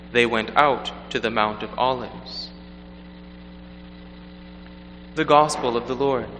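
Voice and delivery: measured liturgical proclamation; Gospel reading. Acted. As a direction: read solemnly from the lectern.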